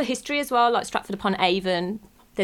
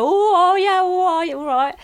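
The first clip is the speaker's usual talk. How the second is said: mock knowing reaction; 9 semitones higher, 5 dB louder than usual. Outsiders hearing she's from Birmingham, mock knowing oh yeah. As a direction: imitate people reacting to Birmingham, knowingly amused. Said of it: "they go".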